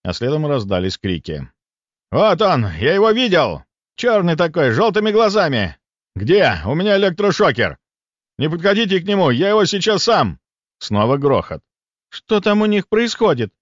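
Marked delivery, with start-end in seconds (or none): 2.1-10.4 high, loud, urgent cries; excited hunter's shout. Acted. Hunters yelling to each other about the beast, excited shout. 12.1-13.5 puzzled. Acted. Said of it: "озадаченно посмотрела на меня Лида".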